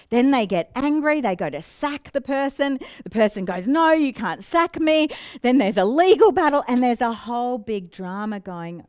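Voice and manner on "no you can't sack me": higher, louder mock protest; a retold cry of protest, lightly played; protesting employee. Staff member protesting to the boss, mock indignant cry.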